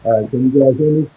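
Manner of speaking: heavily muffled, as if through a wall; mic covered up, words muffled. Real, not acted. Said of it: "That's muffled now".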